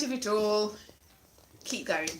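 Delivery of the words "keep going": lower, softer "keep going"; low soft trailing "keep going"; quiet repeat. Real, not acted. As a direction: let "keep going" fade to a soft murmur. Repeats as encouragement.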